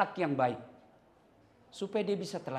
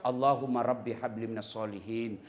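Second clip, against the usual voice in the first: soft prayer; 8 semitones lower than usual. Shown as a demonstration. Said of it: "Kita suap".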